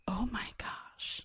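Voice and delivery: a slow, hushed "Oh my gosh"; awed whisper. Retold or imitated. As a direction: breathe it out as if stunned. Recalling being moved.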